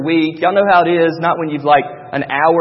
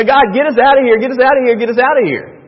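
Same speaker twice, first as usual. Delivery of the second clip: higher, louder repeated plea; imitated desperate plea; 6 semitones higher, 5 dB louder, faster than usual. Israelites begging God to get them out, imitated desperate plea. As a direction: plead urgently, repeating like a chant. Acting Israelites' pleas in Egypt.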